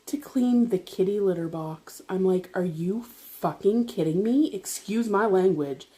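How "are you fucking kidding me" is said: slow, drawn-out disbelief at usual volume; incredulous thought. Retold or imitated. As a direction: think it aloud in slow, contained disbelief. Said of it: "that was my thoughts".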